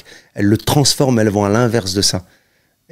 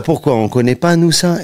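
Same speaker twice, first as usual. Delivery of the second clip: mother's voice; 7 semitones higher than usual. Retold or imitated. Mother's voice in a retold story.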